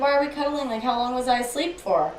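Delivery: high, innocent questioning; puzzled waking boyfriend. Retold or imitated. Boyfriend asking girlfriend about his nap, innocently puzzled. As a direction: imitate someone bewildered on waking.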